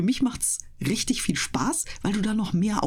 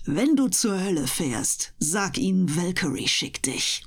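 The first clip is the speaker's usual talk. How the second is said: badass action heroine. Shown as a demonstration. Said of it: "so richtig den Badass mal raushängen zu lassen".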